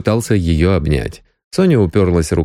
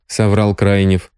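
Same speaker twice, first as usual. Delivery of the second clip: ordinary delivery, nothing marked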